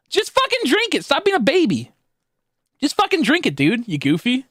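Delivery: high, scolding mock yell at whiners; exasperated friend yelling drink it. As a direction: bark it at a crybaby friend, hammed-up.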